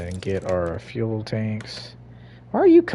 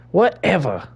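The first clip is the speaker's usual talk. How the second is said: higher, louder put-on "Whatever."; higher, louder "Whatever." in a silly put-on voice; mock dismissive; 6 semitones higher, 4 dB louder than usual. Shown as a demonstration. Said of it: "repeated with different voice".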